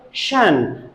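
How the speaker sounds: SHUN with an unvoiced "sh"; taught ending sound. Shown as a demonstration. Teacher quotes primary teacher's rule, taught ending sound. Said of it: "you have to pronounce it".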